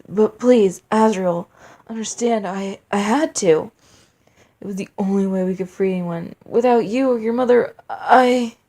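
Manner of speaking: pleading king. Acted. Weeping king pleads with son.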